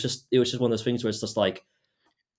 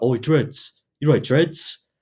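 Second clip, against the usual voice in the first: mock shout, higher and louder; imitated shouting; 5 semitones higher, 6 dB louder, much slower than usual. White guy heckling my friend at the markets, shouting. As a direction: call out like a heckler, pitched up. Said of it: "started shouting out".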